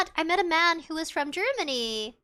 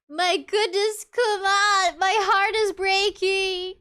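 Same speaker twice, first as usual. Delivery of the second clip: loud, higher, hammed-up Southern drawl; stereotypical Southern accent; 5 semitones higher, 5 dB louder, slower than usual. Shown as a demonstration. Role-playing a Southern character for chat, stereotypical Southern accent. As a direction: play a movie Southerner, big and drawn out. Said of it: "a typical, stereotypical Southern accent".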